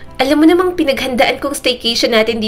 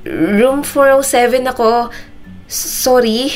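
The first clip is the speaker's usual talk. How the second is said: high, slow, tearful apology; 4 semitones higher, slower than usual. A narrator's reading. Mona admits her room mistake, slow and tearful. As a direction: draw it out through held-back sobs. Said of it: "Hindi niya na napigilan ang mga luha".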